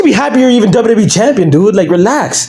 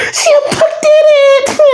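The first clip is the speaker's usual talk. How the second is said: very high, squealing mock announcer call; hammed-up, high-pitched squeal of celebration; mock commentator scream. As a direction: imitate an overexcited commentator shrieking the big moment. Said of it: "Michael Cole is sitting there screaming".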